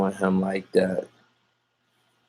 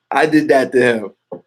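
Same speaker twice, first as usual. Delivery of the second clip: gleeful, higher laughing delivery; laughing boast; 3 semitones higher, 3 dB louder than usual. Real, not acted. Streamer bragging to viewers about his rival, laughing boast. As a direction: break into a laugh while bragging.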